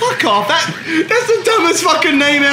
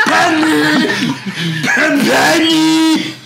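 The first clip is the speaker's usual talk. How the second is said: mock calling out; 4 semitones higher, much slower than usual. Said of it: "five hours of just like".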